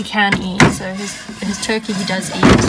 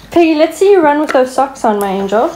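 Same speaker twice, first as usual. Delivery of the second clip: playful urging; 5 semitones higher, 7 dB louder than usual. Real, not acted. Urging the pig to run.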